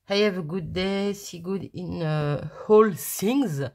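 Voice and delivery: English read with a French accent; accent français en anglais. Real, not acted. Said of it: "Avec mon super accent". (anglais lu avec un accent français)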